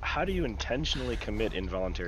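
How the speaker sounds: incredulous. Real, not acted. Incredulous challenge.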